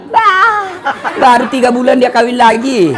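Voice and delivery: high scornful Bah, then a laughing jab; amused scorn at a fast remarriage; mocking scoff. Real, not acted. Mocking widower who remarried quickly.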